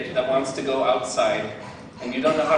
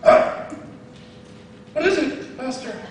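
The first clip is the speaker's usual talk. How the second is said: put-on startled kid; 9 semitones higher than usual. Student answering Jackie Chan's yell, startled and higher. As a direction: jump to attention for your master.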